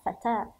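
فتاة with the last letter said as t; final ta sounded. Shown as a demonstration. Teacher shows the ta reading, فتاة ending in a t sound. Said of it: "إما تاء".

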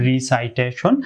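রিসাইটেশন with "sai" like "sigh"; wrong "ree-sigh-TAY-shon"; wrong pronunciation. Shown as a demonstration. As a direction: say "ri-sai-te-shon", the common mistaken way. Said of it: "তাহলে এটি সম্পূর্ণরূপে ভুল".

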